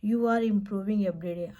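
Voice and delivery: teacher encouraging a learner, modelled slowly; slow model phrase. Shown as a demonstration. Teacher modelling encouragement slowly and clearly. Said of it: "confidence building phrases जैसे हैं".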